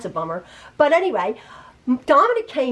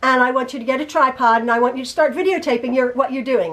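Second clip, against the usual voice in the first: rapid-fire mock instructions; brisk, lightly voiced impression of a son; imitating her son; faster than usual. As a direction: reel off orders quickly, as her son does. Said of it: "This is how he talks".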